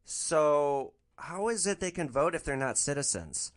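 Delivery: slow, mock-innocent question; playing innocent. Driver feigns innocence to trap passenger: slow innocent question. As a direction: ask it slowly like you know nothing. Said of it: "I'm gonna play this really innocent".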